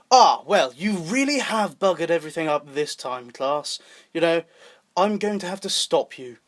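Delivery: deliberate, somewhat formal delivery; measured, stagey formality. Retold or imitated. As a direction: say it like a formal in-character reprimand. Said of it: "formal in a way".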